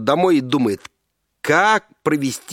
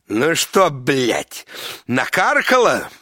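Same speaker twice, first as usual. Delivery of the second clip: angry shout; much slower than usual. Acted. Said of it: "злобно кричит".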